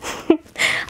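short, breath-like giggle; little laugh. Acted. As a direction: give a brief, pleased laugh. Coy after showing wedding garb.

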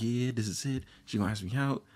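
mildly hyped retold reaction; mock pumping yourself up; a touch of giddy anticipation; getting hyped. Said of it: "getting hyped".

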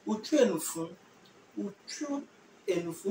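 slow, drawn-out Utwenufu with a rising end; slow model. Shown as a demonstration. Teacher slowly modelling the answer for students. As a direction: stretch out Utwenufu so students catch each syllable. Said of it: "So you say".

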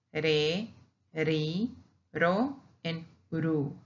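re, ri, ro, ru each with one tap; single R syllables. Shown as a demonstration. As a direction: tap each r once through re, ri, ro, ru. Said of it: "that's the single pronunciation of one only".

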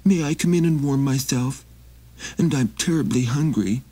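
high, pleading little traveler; high begging wanderer voice; Maxie voice. Acted. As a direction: raise the pitch and ask humbly. Maxie's voice in story.

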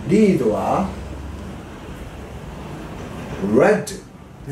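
リードは レッ ド, read said as レッド like the color red; 過去形のreadはレッドと発音. Shown as a demonstration. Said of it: "リードはレッドという読み方になって".

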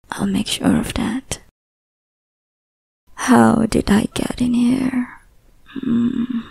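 possessive yandere lover purring over a captive, often whispering; obsessive lover. Acted. Obsessive lover to the captive listener, whispering possessively. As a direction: hold them close and never let go.

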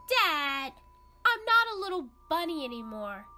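high, fast, indignant protest; young rabbit insisting to mom he is big now, high and fast; insistent young rabbit. Acted. Kid insists to dad.

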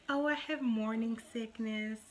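lightly put-on dainty complaint; a touch of make-believe fretting; mock movie complaint. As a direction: mimic a movie mom-to-be gently complaining. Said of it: "What's the major complaints?".

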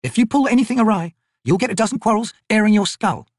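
high-pitched, no-nonsense soldier voice; tough corporal. Acted. Corporal interrogates a harmless-looking old man, tough and brisk. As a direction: question a stranger at crossbow point.

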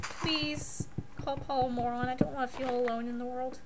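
mock self-pity.

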